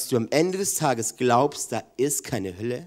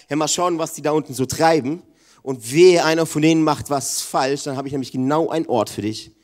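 mock stern old god; 5 dB louder than usual. Mocking God as grumpy old man.

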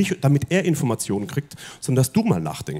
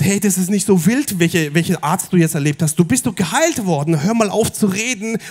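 a hint of an impatient father; lightly voiced, higher and hurried; impatient Jairus; 4 semitones higher than usual. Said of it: "sondern der Jairus".

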